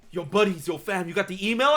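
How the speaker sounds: sneaky, furtive, sneaking delivery. Retelling a friend sneaking into the room, hiding from people: imitating a friend hiding from people. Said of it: "He was like this, like".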